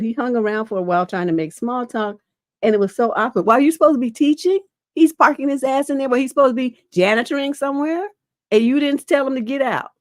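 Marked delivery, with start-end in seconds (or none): 3.5-9.9 higher, faster, exasperated disbelief; indignant outburst. Real, not acted. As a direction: scold the absent man in outrage. Host indignant at the custodian.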